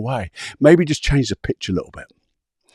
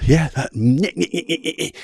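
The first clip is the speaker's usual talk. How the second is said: whiny nyeh nyeh nyeh, higher and fading; nasal-free mock of a nagging voice; mocking inner nagging; 5 semitones higher than usual. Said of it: "Do you remember those voices".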